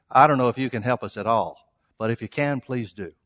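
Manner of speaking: low, resigned pleading, dying away at the end; doubtful plea. Acted. Voices the father's doubting, resigned plea.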